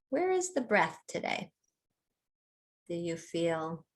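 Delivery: unhurried meditation guide with long pauses; calm mindfulness-teacher delivery, phrase by phrase; guided body scan. Real, not acted. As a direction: lead them gently through a body scan, leaving space between phrases.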